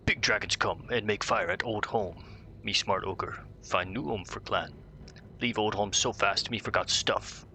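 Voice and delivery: lightly voiced dumb ogre chief; a hint of a boastful brute ogre. Reading ogre quest text.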